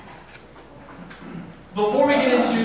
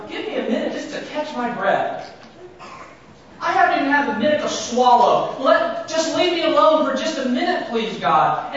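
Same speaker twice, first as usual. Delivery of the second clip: begging for a moment's rest, pitch raised; weary plea; 5 semitones higher than usual. Acted. Sufferer begging God for a break, mild anguish. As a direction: plead like someone out of breath. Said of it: "That's poetic for".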